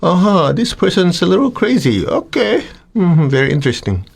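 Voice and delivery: calm detached observer. Shown as a demonstration. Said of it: "just stay a third person".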